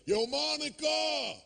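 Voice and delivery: high, drawn-out yell across the subway tracks. Retold or imitated. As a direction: call her name across the platform at full voice. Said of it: "This guy screams across the tracks".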